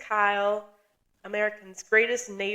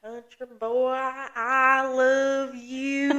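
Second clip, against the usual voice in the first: meme quote; 3 semitones higher, much slower than usual. Retold or imitated. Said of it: "Have you seen that video?".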